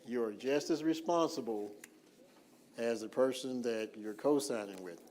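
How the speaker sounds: emphatic, measured restatement; deliberately slow. Real, not acted. Presenter repeating the co-signer's responsibility, deliberately slow and emphatic. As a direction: drive it home phrase by phrase, firmly. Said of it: "I'm talking slow on purpose".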